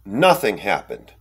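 low, slow, unbothered delivery; imitated eerie dismissal. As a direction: drop low and slow, brushing it off. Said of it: "she went".

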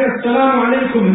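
a heartfelt, genuine salam; sincere Malaysian-free salam, plainly meant; sincere greeting. Shown as a demonstration. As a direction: greet them and mean it. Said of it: "You'd rather say".

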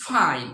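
"ফাইন" as English pine with a puff; aspirated P. Shown as a demonstration. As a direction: burst air on the first sound of "ফাইন". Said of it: "বাতাস আসে".

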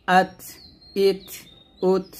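আত, ইত, উত each ending in a breath puff; airy ta. Shown as a demonstration. Teacher recapping the ta drill, aspirated endings. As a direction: let air escape after each final t. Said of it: "তা বাতাস বের করবেন".

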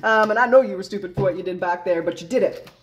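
a mock-smug brush-off, chuckling between the words; laughing, knowing shrug of a retort; laughing smugness. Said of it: "and you're like".

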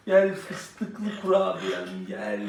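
tender. Real, not acted. Calling the baby tenderly.

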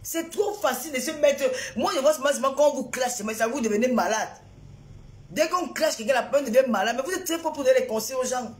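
fast rising indignant rant; angry rant. Real, not acted. Streamer ranting at advice-giving viewers, real anger. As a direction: vent at viewers who preach advice. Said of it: "elle est en colère aujourd'hui".

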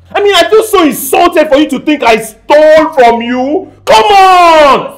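insulted, pitch rising to a shout; indignant protest. Acted. Accused man protests his innocence.

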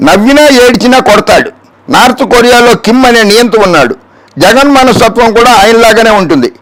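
emphatic reading of accusations; declamatory read-out. Acted. Host quoting the opponent's charges before answering, declamatory.

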